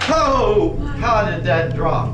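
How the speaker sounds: laughing disbelief. Real, not acted. Laughing in disbelief at fallen bottle.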